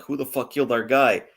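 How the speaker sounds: put-on a light, offhand New York accent on a thug's line. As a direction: toss off a mild New York tough-guy accent. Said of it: "I gave him, like, a, a New York accent".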